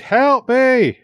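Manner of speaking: high, loud cry for rescue; desperate shout. A narrator's reading. Captive girl calling up to the battlements, terrified shout. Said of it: "she shouted".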